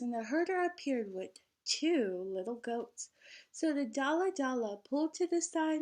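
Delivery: lively, sing-song storybook reading; bouncy picture-book narration; reading to children. A narrator's reading. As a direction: read the rhyme out to a class of kids.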